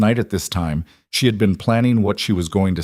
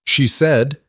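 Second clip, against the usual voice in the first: hoarse, each word costing effort; wrecked hoarse voice; 6 semitones higher, 3 dB louder than usual. Acted. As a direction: force the words through a ruined throat. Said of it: "in that wrecked voice".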